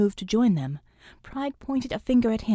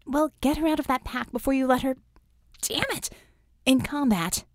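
urgent warning; 5 semitones higher than usual. Acted. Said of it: "Vicky warned".

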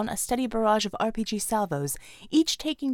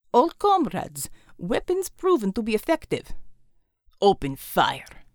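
commander giving orders; 2 semitones lower than usual. Acted. Commander orders troops to fire.

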